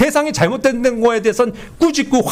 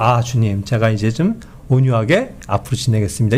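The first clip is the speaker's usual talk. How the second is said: meek prayer; 8 semitones lower than usual. Retold or imitated. Believer calmed after sunset, praying to the Lord, meek and low.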